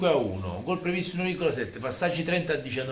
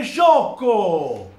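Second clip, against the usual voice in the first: angry insult; 5 semitones higher, 8 dB louder than usual. Real, not acted. Scolding teammate.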